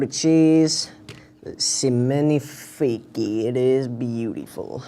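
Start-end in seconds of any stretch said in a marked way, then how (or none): 1.6-4.8 french chef. Pretend. Mock French chef whisper.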